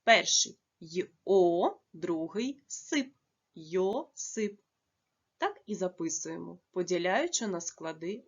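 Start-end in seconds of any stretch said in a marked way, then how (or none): 0.0-3.1 "й, о" then "сип" set apart with pauses; syllable split. Shown as a demonstration. Teacher splitting "Йосип" into syllables for children. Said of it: "має два склади". 3.6-4.6 "Йосип" said slowly and clearly, whole word after its syllables; slow careful Йосип. Shown as a demonstration. Teacher to pupils, saying "Йосип" slowly after splitting it. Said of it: "Ім'я Йосип має два склади".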